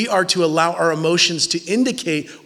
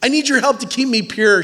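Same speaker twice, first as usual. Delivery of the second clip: mock lovesick plea; 6 semitones higher, 4 dB louder than usual. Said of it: "she's like".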